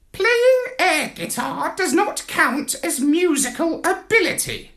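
high squawky parrot voice, lofty; a lecturing bird looking down its beak; haughty parrot. A narrator's reading. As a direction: parrot correcting Marlowe, high and superior. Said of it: "he told him".

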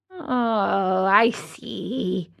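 a hint of a scared carpenter; brave forced laugh. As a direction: fake courage in a quiet voice. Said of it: "trying bravely to laugh".

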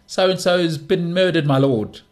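a hint of a solemn messenger, slow; lightly voiced messenger. Messenger reporting a murder to his lord, lightly voiced and slow. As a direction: deliver the bad news slowly and gravely. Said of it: "the messenger boy comes in".

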